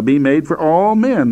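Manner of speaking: "all" lifted slightly above the rest; stress on all. Shown as a demonstration. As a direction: give "all" a firm push. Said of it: "I'm emphasizing the word all here".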